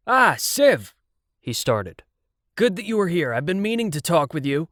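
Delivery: a smooth talker greeting Siv; a hint of an oily producer. A narrator's reading. Producer voiced in story.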